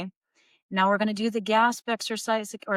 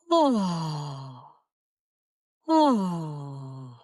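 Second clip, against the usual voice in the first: low yawn-like "oh" with dropped back tongue; yawny "oh"; 5 semitones lower than usual. Shown as a demonstration. Vocal coach showing students the dropped-tongue sound, a yawning "oh". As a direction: sigh out a dopey, yawning oh, falling in pitch. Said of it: "as if you're about to yawn and make a sound like this".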